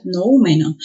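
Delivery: Noúmeno as no-Ú-me-no; Noúmeno with a separate, stressed ú. Shown as a demonstration. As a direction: lean on the ú of Noúmeno. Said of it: "la mayor fuerza de voz".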